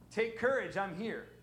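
high, very soft hammed-up comfort; playful high soft calming Jesus; soothing Jesus voice. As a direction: hush the frightened disciples gently. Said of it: "I'm gonna help Sean here".

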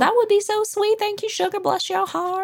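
high-pitched, syrupy Southern belle imitation; Southern accent. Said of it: "Brits love your Southern accent".

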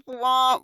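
imitated sad trombone wah-wah; mock game-show losing sound. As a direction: sing out a deflating comic "wah, wah". Mock sad trombone after bad news.

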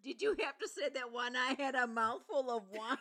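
mock complaint through laughter; laughing protest. Real, not acted. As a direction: complain while trying not to laugh. Nearly choked laughing on wine.

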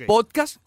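"Podcast" with the accent on its O and no final S sound; stress on the O in Podcast. Shown as a demonstration. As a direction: lean on the O of "Podcast", drop any final S. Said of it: "con acento en la O".

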